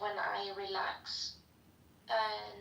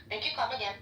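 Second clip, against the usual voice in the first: a mock Indian accent that drifts toward Chinese; a light Indian accent that slips into sounding Chinese; Indian accent, drifting Chinese; faster than usual. Shown as a demonstration. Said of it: "That is more like Chinese".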